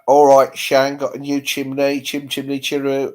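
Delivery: London accent with a drawn-out finish. Shown as a demonstration. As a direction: put on a slow London chimney-sweep accent. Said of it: "She wants your London accent".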